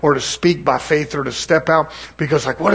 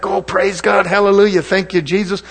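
charismatic praise; 3 semitones higher than usual. Retold or imitated. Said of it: "people come in with charisma".

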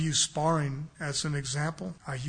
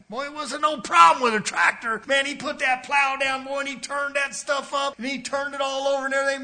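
loud, high storytelling burst; marvelling at the tractor; excited retelling; 8 semitones higher, 6 dB louder than usual. Real, not acted. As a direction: tell it with gusto.

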